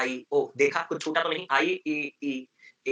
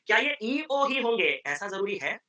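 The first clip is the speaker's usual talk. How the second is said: slow, drawn-out teacher question; slow probing question; 3 semitones higher, slower than usual. Shown as a demonstration. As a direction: lead the student slowly. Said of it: "teacher probes slowly". (धीमा, सोचने वाला सवाल)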